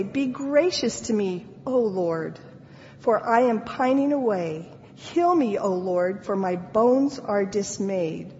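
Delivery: pleading prayer, voice rising on heal; anguished prayer; distressed plea. Acted. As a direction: cry out to God in distress. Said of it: "Do you hear the distress in his voice?".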